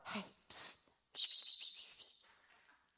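very soft, voiceless "psst"; mock furtive whisper. Preacher mocking a God who barely tries, furtive whisper. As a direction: hiss for attention as if in secret. Mimics God secretly trying for attention.

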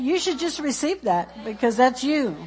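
ordinary talk

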